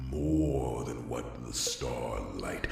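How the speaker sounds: rising rallying cry. Acted. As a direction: build it into a rousing appeal to the pack. Alpha rousing his pack.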